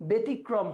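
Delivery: ব্যতিক্রম as "be-tikrom"; closed correction. Shown as a demonstration. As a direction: correct the first vowel of ব্যতিক্রম to a narrow e. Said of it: "বলো, না".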